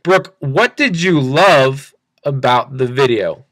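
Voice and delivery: slow, deliberate "what did you love about the video", every word laid down; slow model question. Shown as a demonstration. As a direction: ask it slowly and leave room for the answer. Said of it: "but ask the question".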